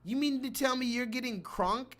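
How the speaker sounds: ordinary talk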